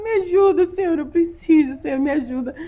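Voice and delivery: high-pitched mock-weepy prayer; retold tearful pleading. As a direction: plead with God, imitating your own crying. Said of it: "morrendo de chorar". (súplica aguda, imitando choro)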